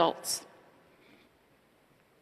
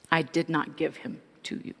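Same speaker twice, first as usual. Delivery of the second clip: calm quiet voice; 5 dB quieter than usual. Retold or imitated. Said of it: "I heard a very calm, quiet voice say".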